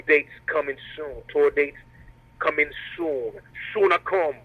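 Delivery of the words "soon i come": short Jamaican accent attempt. Shown as a demonstration. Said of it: "That's the best Jamaican accent I'm gonna give you".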